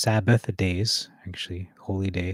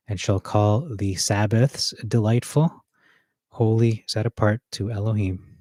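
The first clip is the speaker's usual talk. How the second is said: louder, each word pressed firmly for emphasis; emphatic reading; 5 dB louder than usual. Shown as a demonstration. Preacher rereads Isaiah to the congregation for emphasis, loud and pressed. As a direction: lean on every word to bring it home. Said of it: "just to bring it home".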